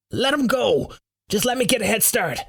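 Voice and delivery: high, hurried instruction; cowardly urgency. Acted. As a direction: blurt it out, ready to bolt. Roar about to flee in fear.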